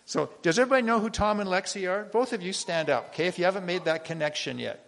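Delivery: loud, fast call to the crowd; yelling across the room. Real, not acted. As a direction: project it to the back row. Calling out to the congregation.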